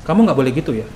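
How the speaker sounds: low-pitched, restrained telling-off; too-mild scolding. Shown as a demonstration. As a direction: scold without any anger in it. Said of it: "Kalau marah nggak mungkin dong". (teguran tanpa nada marah)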